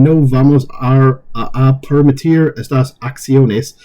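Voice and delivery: slow, halting go at a Spanish accent; attempted Spanish accent. Real, not acted. Reader caught unready by a Spanish quote, attempted Spanish accent. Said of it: "pardon my Spanish accent".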